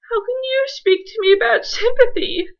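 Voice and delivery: high, loud wounded outrage; indignant demand. Acted. Miss Hendworth rounds on the claims man, indignant and loud. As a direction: fling the question back at him, hurt and furious. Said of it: "Miss Hendworth demanded".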